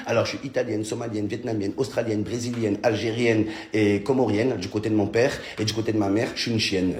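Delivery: a girl reeling off origins, lightly mocked; mocking girl voice. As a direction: list them in a bored mock voice.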